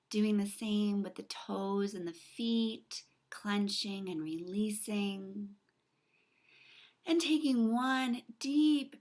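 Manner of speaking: unhurried meditation guide with long pauses between phrases; soothing guided-meditation delivery, drawn-out key words. Acted. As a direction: lead the listener gently into relaxation, letting each phrase settle.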